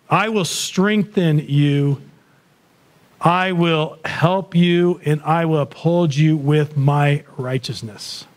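very slow, weighty scripture quote; solemn scripture. Acted. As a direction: draw every promise out slowly. Quoting Isaiah slowly.

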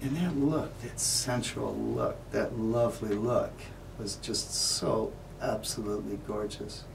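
soft, lingering, love-struck murmur; dreamy adoration. Acted. Man remembering Irene's lovely look, softly adoring. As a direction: savour each phrase softly. Savours memory of her look.

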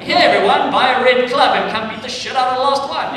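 loud rallying announcer shouting to the crowd; mock rallying call. Campaigner calling the public to kill the last monster, loud rallying shout. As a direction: rouse everyone to go beat the monster.

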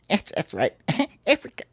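giggling through the words; breaking into giggles; laughing. Real, not acted. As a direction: laugh while saying it. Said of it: "I can't even say it".

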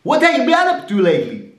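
very high, fast falsetto; high squeaky voice. Shown as a demonstration. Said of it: "that doesn't sound like a hillbilly".

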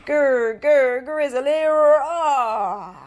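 loud growling grizzly; bear growl. Acted. Reader playing a grizzly bear, loud growl.

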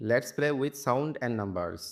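very slow, word by word; slow reading. Shown as a demonstration. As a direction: spell the title out slowly for the class. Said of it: "teacher reads chapter title aloud". (খুব ধীরে, শব্দে শব্দে পড়া)

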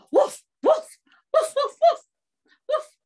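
high, loud warning barks; alarmed dog barking. Acted. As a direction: bark a warning at the wolf. Dog warns of wolf.

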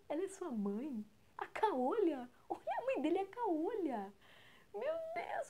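put-on high, loud jeering kid voices; mocking schoolmates. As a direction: taunt him like cruel classmates. Schoolmates mock boy's one-eyed mother.

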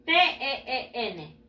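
letters one at a time, evenly spaced; separate, measured letter names; spelled out. Shown as a demonstration. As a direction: spell it slowly for learners to follow. Teacher spells the ending for learners.

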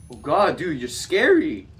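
loud, high frightened shout; shouting in fright; scared. Real, not acted. Scared by monster.

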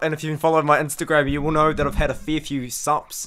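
raspy, worn-out voice after screaming; hoarse voice. Real, not acted. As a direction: talk through a voice lost from yelling. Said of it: "I've lost my voice 'cause I was screaming".

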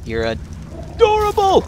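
high, slow squeal of delight. Real, not acted. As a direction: squeal it at the cute pet. Gushing over the pet.

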